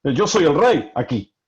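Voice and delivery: mildly haughty assertion of rank; arrogant king. Acted. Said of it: "la expresión de arrogancia del rey". (rey arrogante, marcando su autoridad)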